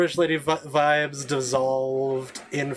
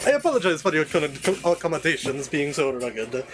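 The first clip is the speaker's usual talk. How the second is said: Jarvis. Acted. Servant proudly reporting palace progress to his queen, obsequious. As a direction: grandly report to your queen with swooping pitch. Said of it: "Here's Jarvis!".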